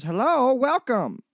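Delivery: lightly voiced automated greeting; robotic door chime voice. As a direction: imitate a tinny shop-door chime. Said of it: "in a Chinese voice goes".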